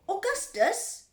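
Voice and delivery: high, drawn-out mother's shout. A narrator's reading. Mother to her greedy son at the river, shouting. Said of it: "shouted Missus Gloop".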